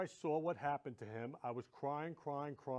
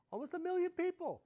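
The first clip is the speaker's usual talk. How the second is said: emphatic; 14 semitones higher, 4 dB louder than usual. Real, not acted. Stressing covid death toll.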